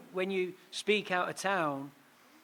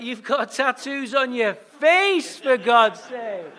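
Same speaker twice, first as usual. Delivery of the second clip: slow, louder and higher, laughing through it; laughing tease; 6 semitones higher, 11 dB louder, slower than usual. Retold or imitated. Speaker teasing crying tough guys in car, laughing. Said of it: "I'm like".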